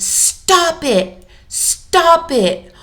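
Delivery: put-on a frustrated toddler parroting its parent; toddler copying a yell. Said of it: "your child may respond".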